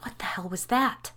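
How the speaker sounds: a shocked breathless whisper. Acted. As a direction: whisper it so no one hears. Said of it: "I whispered".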